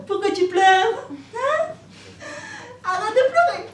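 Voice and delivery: pleading. Acted. Pleading with crying baby.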